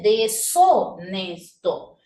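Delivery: deshonesto slowly as de-so-nesto; silent H. Shown as a demonstration. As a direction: stretch deshonesto into de-SO-nes-to, no H. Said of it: "la H es muda".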